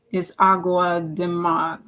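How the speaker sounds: slow careful Portuguese "água de mar", vowels fully open; Portuguese title. Shown as a demonstration. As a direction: read "água de mar" slowly, placing each Portuguese syllable. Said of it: "I hope I'm saying it right".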